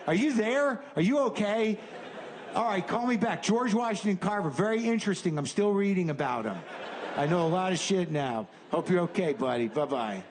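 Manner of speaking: a lightly voiced excited buddy; friend's voicemail.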